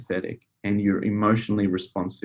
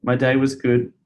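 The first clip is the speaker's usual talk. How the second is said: mildly put-on polite small talk; lightly acted politeness; polite reply; 4 semitones higher than usual. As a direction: give a courteous, noncommittal answer, pitched up at first. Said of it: "say something polite".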